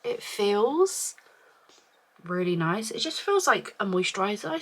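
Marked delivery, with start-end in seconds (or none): 0.0-1.2 whisper. Real, not acted. Trying product on skin.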